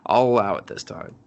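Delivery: voiceless whispered concession; hushed, grudging whisper. Retold or imitated. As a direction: let it slip out, barely voiced. Door conceding in a hush.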